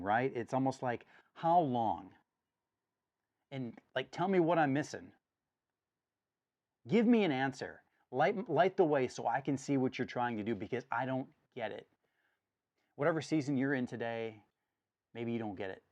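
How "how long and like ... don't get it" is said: raised, pleading voice; mock shouting at God. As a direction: plead loudly, half shouting. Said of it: "it's almost like he's shouting".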